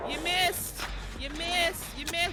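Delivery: taunting. Real, not acted. Taunting killer who missed.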